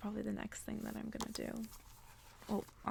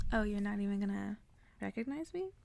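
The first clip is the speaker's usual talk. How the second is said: playful mock princess voice, swelling much louder at the end; sassy character quote; 10 dB louder than usual. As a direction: tease like a proud princess, last words loud. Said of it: "I liked how she was like".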